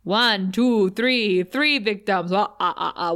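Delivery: lightly voiced Sesame Street vampire counting. Xander mocks Dracula with Sesame Street, puppet-count imitation. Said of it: "you know, the count".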